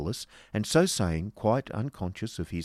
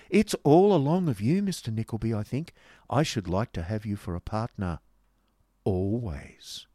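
coquettish; 3 semitones higher, 4 dB louder than usual. Acted. Miss Price flirts with her card partner, coquettishly. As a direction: flatter him with playful lilt. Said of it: "coquettish Miss Price".

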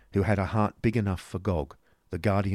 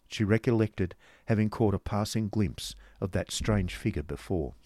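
plain reading voice

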